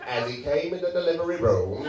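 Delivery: lightly voiced solemn narrator; a hint of grand storyteller; Morgan Freeman. Impersonates Morgan Freeman narrating own birth.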